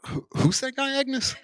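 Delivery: very high, curious imitated voice; Truffaut asking. Truffaut leaning over to ask Agnes, very high curious voice. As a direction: pitch it way up, nosy and eager. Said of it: "Truffaut was like".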